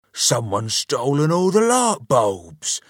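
high, loud wail of alarm. A narrator's reading. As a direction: wail it out like a robbed husband. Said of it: "Mister Grunt wailed".

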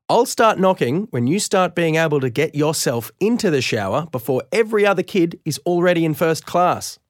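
high, sharp scolding; scolding mum. Acted. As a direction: tell him off like a tired mum.

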